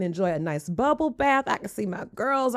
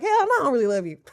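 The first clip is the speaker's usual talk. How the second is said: laughing; 5 semitones higher, faster than usual. Real, not acted. Laughs at her own joke.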